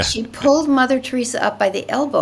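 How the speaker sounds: laughing. Real, not acted. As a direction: laugh through the line. Laughing while retelling.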